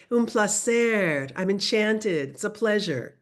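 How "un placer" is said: "Un placer" slower with every sound clear; teacher modelling "Un placer" for learners; slow careful repeat. Shown as a demonstration. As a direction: repeat "Un placer" slowly and distinctly.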